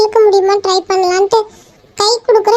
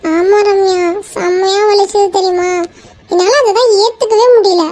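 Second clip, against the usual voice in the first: tearful. Acted. Tells friend how hand hurt.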